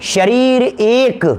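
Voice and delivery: drawn-out words, first half held up, second half falling; slow, emphatic repetition. Real, not acted. Teacher repeats the definition for the class, slow and emphatic. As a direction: repeat it slowly so it sinks in.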